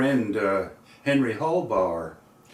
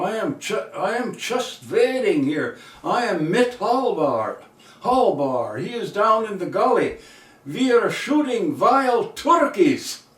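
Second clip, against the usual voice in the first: put-on high-pitched, swinging German-accented blurt; heavy German accent; 8 semitones higher, 3 dB louder than usual. John blurts the secret to the school bus driver, heavy German accent. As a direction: imitate John's thick German accent, rising to the punchline. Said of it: "heavy German accent".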